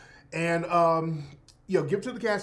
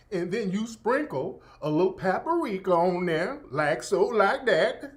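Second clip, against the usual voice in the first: exaggerated Southern accent. Streamer mimicking a cooking influencer, exaggerated Southern accent. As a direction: lay the Southern accent on thick, like a TikTok cook. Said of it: "She's going overboard with the accent".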